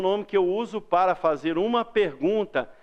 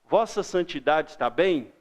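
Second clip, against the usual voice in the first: lower, reverent and careful; formal to the Pope; 4 semitones lower than usual. Shown as a demonstration. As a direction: address the Pope with deference. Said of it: "eu falo assim". (tratamento reverente ao Papa)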